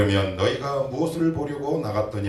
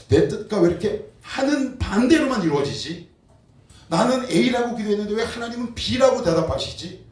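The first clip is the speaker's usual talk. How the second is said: frustrated believer; 9 semitones higher, 4 dB louder than usual. Pretend. Congregant voicing frustrated complaint.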